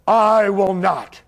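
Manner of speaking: slow, steady refusal. Retold or imitated. Yahshua answering the priests, a slow calm refusal. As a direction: say it slow and firm. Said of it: "And he said".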